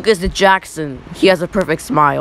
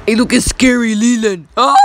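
mock scared shout; 3 semitones higher, 4 dB louder than usual.

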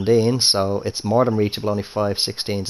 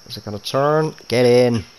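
excited; 3 semitones higher, 6 dB louder than usual. Real, not acted. Putt dropping, cheering it in.

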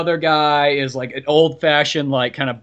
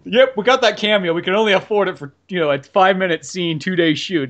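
brisk producer voice, pitched up; lightly voiced penny-pinching producer; studio voice; 4 semitones higher, 4 dB louder than usual. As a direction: play a cheap studio exec.

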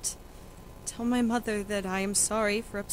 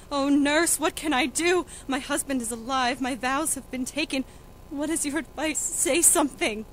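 desperate appeal; 2 semitones higher, 4 dB louder than usual. Acted. Juliet begging the nurse for advice, desperate. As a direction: plead with rising urgency.

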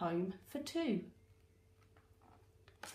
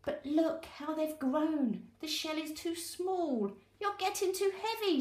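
complaining crab; 7 semitones higher than usual. Acted.

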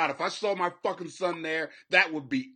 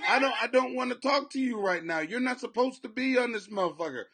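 raised, high-pitched telling-off; exasperated scolding; 7 semitones higher, 5 dB louder than usual. Acted. Host tells off an unwanted interruption, exasperated scolding. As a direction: scold someone who keeps interrupting.

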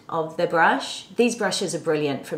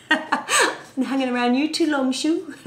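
real laughter through higher-pitched words; laughing; 6 semitones higher than usual. Real, not acted. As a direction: laugh while teasing a friend. Joking with Sue about her accent.

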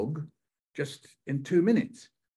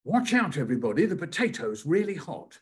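dad's warning; 3 semitones higher, 3 dB louder than usual. Retold or imitated. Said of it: "he turns to us and he says".

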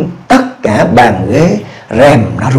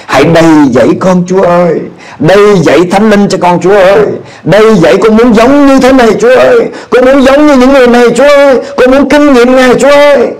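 pleading with God, building to a cry; fervent prayer; 3 semitones higher than usual. Retold or imitated. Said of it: "tôi quỳ gối, tôi nói".

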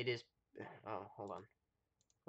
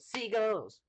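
quoting sketch voice; 9 semitones higher, slower than usual. Retold or imitated. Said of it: "I said".

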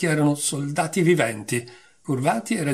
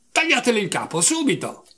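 high, loud royal command to behead; furious shout; 8 semitones higher, 3 dB louder than usual. A narrator's reading. Enraged queen shouting to have Alice beheaded. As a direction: bark the order like an enraged queen. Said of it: "gridò".

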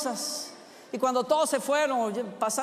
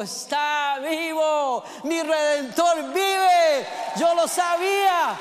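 slow, louder triumphant cry, building higher; joyful proclamation; 4 semitones higher, 5 dB louder, much slower than usual. Acted. Preacher voicing María announcing the risen Lord, exultant slow cry. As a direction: shout the news like she can't hold it in.

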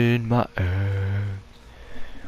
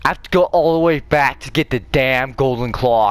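annoyed; 5 semitones higher, 4 dB louder than usual. Real, not acted. Forced to backtrack for item.

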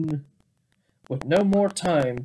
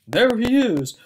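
excited spotting; 5 semitones higher, 4 dB louder than usual. Acted. Bears spot the thief.

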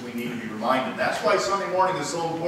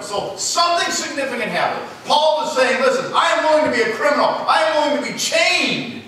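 higher-pitched, emphatic pulpit voice; forceful preaching; 8 semitones higher, 6 dB louder than usual. Acted. Preacher explaining Paul's hope to the church, forceful preaching. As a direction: drive each point home to the congregation.

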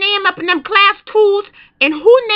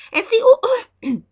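shivery ooh; 3 semitones higher, slower than usual. Acted. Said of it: "Miss Murder getting a little cold".

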